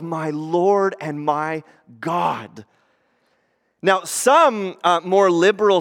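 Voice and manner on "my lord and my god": slow, steady declaration; the preacher quoting Thomas, slow and plain; slow confession. Retold or imitated. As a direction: say it as a firm statement. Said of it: "he goes".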